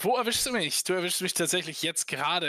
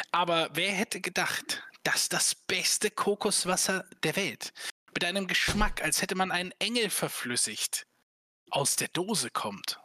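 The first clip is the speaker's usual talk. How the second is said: infomercial; 3 semitones higher than usual. Pretend. Mock ad pitch for coconut water.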